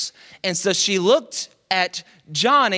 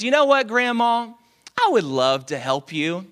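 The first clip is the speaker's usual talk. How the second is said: put-on overly polite girl; faster than usual. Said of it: "She didn't talk like this".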